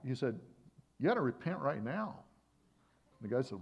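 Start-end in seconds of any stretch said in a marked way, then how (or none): 1.0-2.2 raised, insistent command; harsh rebuke. Retold or imitated. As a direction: confront them firmly, retelling a rebuke. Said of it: "that's maybe a harsh way".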